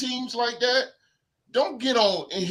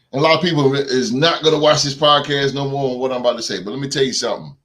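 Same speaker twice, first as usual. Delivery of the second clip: loud, fast, building to a called-out Dallas Cowboy fans; hyped podcast call-out; fired-up rant opener; 6 semitones lower, 8 dB louder, faster than usual. Real, not acted. Launching into rant, calling out.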